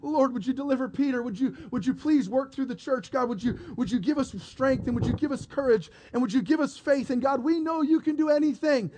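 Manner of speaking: earnest, lightly voiced pleading prayer; praying disciples. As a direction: plead with God in a rising run. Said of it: "They're all praying".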